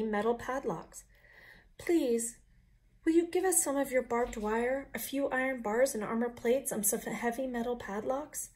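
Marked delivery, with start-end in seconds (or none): 1.8-8.5 a touch higher, polite plea; little wolves asking. Acted. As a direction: ask sweetly.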